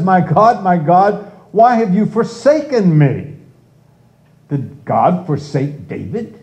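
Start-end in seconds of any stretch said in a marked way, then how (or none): 0.0-3.4 raised, pleading voice crying out to God; anguished cry. Retold or imitated. Preacher voicing David crying out to God, pleading. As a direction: cry it out like a forsaken man. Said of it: "It says".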